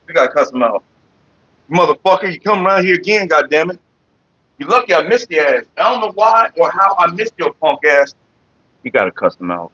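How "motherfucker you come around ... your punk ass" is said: cussing out. Real, not acted. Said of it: "You gotta cuss 'em out while you're doing it".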